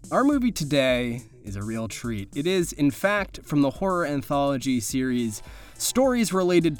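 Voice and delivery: measured horror-anthology host narration; narrator introduction. Acted. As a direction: present it like a TV host over eerie music. Presents the movie over music.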